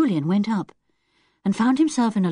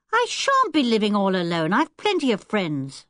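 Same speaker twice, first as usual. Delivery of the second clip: defiant; 3 semitones higher than usual. Acted. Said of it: "said Wilfred defiantly".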